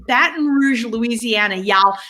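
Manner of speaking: lightly put-on Southern accent; a touch of Louisiana twang on y'all. Host introducing a guest from Louisiana, mock Southern accent. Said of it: "if that's a good Southern accent".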